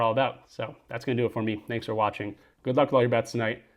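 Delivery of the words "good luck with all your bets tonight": breathless and winded; out of breath. Real, not acted. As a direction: talk between quick breaths. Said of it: "I'm, like, out of breath".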